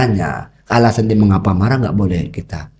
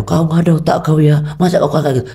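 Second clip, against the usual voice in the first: mahasiswi marah; 5 semitones higher than usual. Retold or imitated. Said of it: "isi percakapannya".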